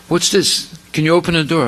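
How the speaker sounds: startled, calling to be let out; a young man suddenly trapped; alarmed question. Acted. Boy finds the door locked.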